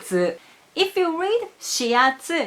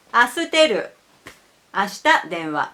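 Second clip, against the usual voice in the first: learner's mispronounced Japanese; 3 semitones lower, faster than usual. Retold or imitated. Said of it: "but he said".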